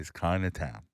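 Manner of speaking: spoken word with lips held open; muffled lip sounds, mouth stretched wide; mouthpiece in. Shown as a demonstration. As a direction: recite round a gadget in the mouth. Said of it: "Spoken word or singing?".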